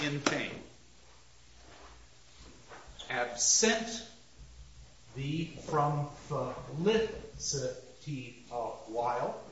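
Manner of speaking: Absent said with a rise, felicity rushed through lightly; quick short line. Shown as a demonstration. Teacher quickly showing a line with only three accents. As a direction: let "Absent thee from felicity a while" skip by fast on short vowels. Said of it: "We only have three accents".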